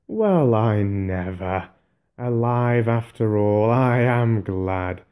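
slow, lightly voiced glad old wizard; glad relief. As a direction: savour the relief of seeing him. Gandalf relieved Bilbo is alive.

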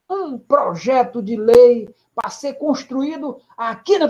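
lightly hoarse rally orator, slow; a hint of Brizola's raspy campaign voice; hoarse Brizola speech voice. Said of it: "ele imitava o Brizola".

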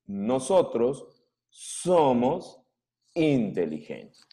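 each word set apart by a pause; slow word by word. Shown as a demonstration. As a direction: say it word by word, slowly. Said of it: "¿Qué cosa quiere decir eso?".

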